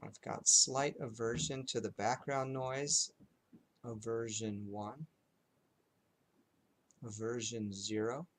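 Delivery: unhurried noting with long silences between phrases; lightly hushed, measured meditation guiding; guided meditation. Shown as a demonstration. Teacher leading students in zero-to-five noting, calm guided meditation.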